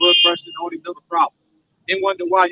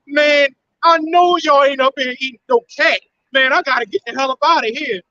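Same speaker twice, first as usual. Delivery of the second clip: mock outraged shout; 4 semitones higher than usual. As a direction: bellow it like you just walked in on something gross. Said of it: "She's like".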